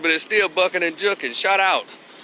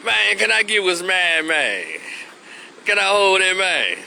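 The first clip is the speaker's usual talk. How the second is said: Memphis money ask; 4 semitones higher than usual. Retold or imitated. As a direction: press a brother for what he owes. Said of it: "he hasn't paid you your money".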